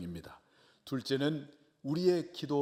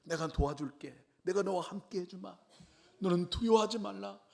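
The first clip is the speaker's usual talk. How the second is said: reassuring God; 7 semitones higher than usual. Retold or imitated. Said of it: "기뻐가지고".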